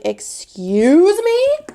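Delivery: high, slow, loud disbelief; indignant excuse me. Retold or imitated. Mom confronting a child who hit her son, indignant. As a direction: stretch it out, outraged and shocked. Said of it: "And I was like".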